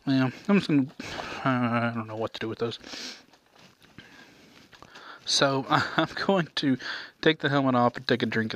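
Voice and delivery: muffled through a helmet; talking inside a motorcycle helmet. Real, not acted. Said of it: "It's hard to eat in a motorcycle helmet".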